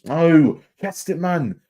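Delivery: high, loud cry of No then a strained plea; frustrated shout. Real, not acted. Fan groaning at a striker who fluffed it, frustrated shout. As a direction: yell at the missed chance. Fan reacts to missed chance.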